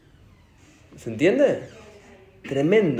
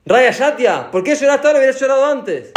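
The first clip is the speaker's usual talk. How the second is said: stern rebuke; 12 semitones higher, 7 dB louder than usual. Retold or imitated. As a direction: drag out the insult like a judge. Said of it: "¡Hashem!".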